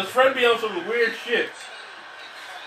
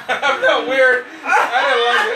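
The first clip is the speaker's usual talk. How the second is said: laughing insistence; 3 semitones higher, 5 dB louder, slower than usual. Real, not acted.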